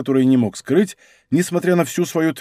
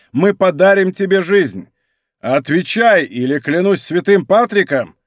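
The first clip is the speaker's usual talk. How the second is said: louder, higher call to the house; shouted; 4 semitones higher, 3 dB louder than usual. Acted. Officer shouting at the man in the burning house, loud threat. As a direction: yell the threat at the besieged man. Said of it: "крикнул осаждённому".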